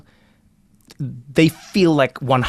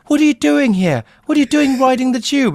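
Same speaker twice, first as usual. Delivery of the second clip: much higher, louder, astonished; surprised Londoners; 13 semitones higher, 5 dB louder than usual. Retold or imitated. Commuters stunned to see him on the tube, high and astonished. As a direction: gasp it like a shocked commuter. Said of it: "people are like".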